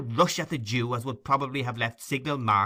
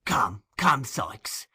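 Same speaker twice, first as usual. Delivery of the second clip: remonstrating; 3 dB louder, much slower than usual. Acted. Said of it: "in a remonstratory tone".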